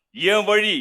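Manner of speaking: slow, drawn-out punchline delivery; film-hero catchphrase. Acted. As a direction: stretch it out like a screen hero.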